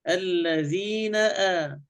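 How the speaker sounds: "الذين آ" slow, glottal onset on "آ"; careful full glottal stop before "آ"; clear hamza. Shown as a demonstration. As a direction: break cleanly into the hamza of "آ". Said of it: "الهمزة تكون محققة".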